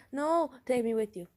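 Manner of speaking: high, loud mock protest; protesting boyfriend. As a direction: imitate a clingy boyfriend objecting. Boyfriend begs to come along.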